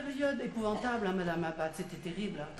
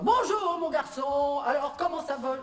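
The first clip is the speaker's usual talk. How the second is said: hearty father; 3 semitones higher, 4 dB louder than usual. Retold or imitated. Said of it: "il passait devant vous en disant".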